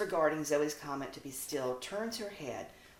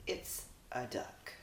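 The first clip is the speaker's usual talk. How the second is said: calm explaining; 4 semitones lower, 11 dB quieter than usual. Acted. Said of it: "Precious explained".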